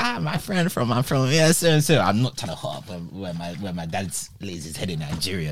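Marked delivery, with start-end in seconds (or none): 0.0-2.0 higher, attempted Nigerian accent; faking a Nigerian accent to the boys. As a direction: try and pass as a local with a Nigerian accent. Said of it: "speak how you spoke".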